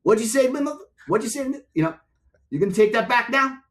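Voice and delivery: high, loud menacing yell at me; furious shout. Retold or imitated. Drummer yells at me over the balcony, a loud furious shout. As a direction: bellow the threat high and loud. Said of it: "And he said".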